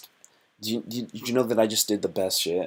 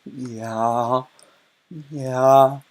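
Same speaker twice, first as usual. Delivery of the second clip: louder, higher, slow and pleading; eager girl voice; 4 semitones higher, 5 dB louder, much slower than usual. Retold or imitated. Streamer acting the girl asking the guy, eager put-on voice. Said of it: "And she goes".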